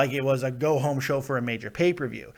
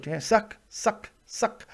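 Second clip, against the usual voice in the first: mock lazy review; 5 semitones higher, slower than usual. Shown as a demonstration. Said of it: "I can just go".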